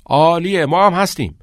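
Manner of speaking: high, loud, keen reply; eager agreement. A narrator's reading. Boys agree to the study group, calling eagerly. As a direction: call back your yes with enthusiasm.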